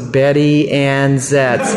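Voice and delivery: name dragged out slowly; slow recognition. Retold or imitated. Cab man recognizing his old caller, slow and knowing. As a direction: let each word of the name land. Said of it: "He goes".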